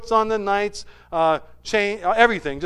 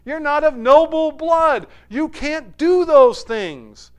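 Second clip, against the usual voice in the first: high, scoffing protest; a hint of incredulous friends scolding; mocking companions; 10 semitones higher, 8 dB louder than usual. Companions scolding Will, mildly mocking and high. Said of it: "And they're like".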